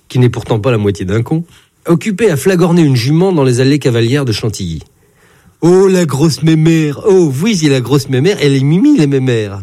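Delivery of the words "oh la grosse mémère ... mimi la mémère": put-on simpering baby talk. Jockey cooing over a mare in simpering baby talk. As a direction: coo it like to a pet. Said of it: "minaudait-il".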